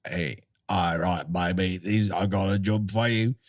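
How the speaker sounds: low, slangy hustler voice; sleazy Macavity. Acted. Macavity offering a cat a job, sleazy put-on voice. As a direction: put on a shady schemer making a pitch. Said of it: "how does Macavity, like".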